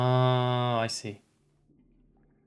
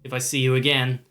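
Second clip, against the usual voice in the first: menacing raspy zealot. Acted. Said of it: "when I do this guy's voice".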